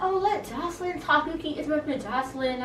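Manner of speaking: mock indignation. Recapper imitating castmate mad on another woman's behalf, mock indignant. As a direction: mimic someone indignantly defending another. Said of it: "Capri gets mad for Jocelyn".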